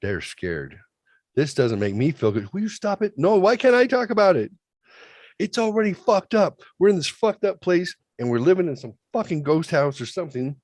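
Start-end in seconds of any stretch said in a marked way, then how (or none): 2.5-7.4 high, indignant push-back; pitched-up defensive retort; heated protest. Real, not acted. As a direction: argue back at someone telling you to stop. Arguing with someone off mic.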